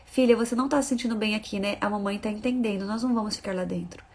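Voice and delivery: put-on calm the child down softly; reassuring mother. Mother to her uneasy daughter, soft reassuring voice.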